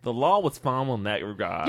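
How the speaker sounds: imitated Boston vowels, not quite there; attempted Boston accent. Shown as a demonstration. Copying co-host's phrase, rough Boston accent. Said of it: "You're actually not that far off".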